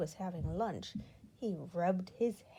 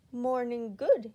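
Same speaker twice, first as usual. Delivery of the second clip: cheerful; 3 semitones higher, 7 dB louder, slower than usual. A narrator's reading. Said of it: "he said cheerfully".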